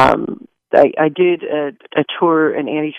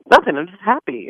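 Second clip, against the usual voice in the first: higher-pitched imitation of a sweet child; happy young girl; 6 semitones higher than usual. Actress imitates her young co-star's answer, lightly voiced happy child. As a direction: lightly voice a blissfully happy kid. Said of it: "She's like".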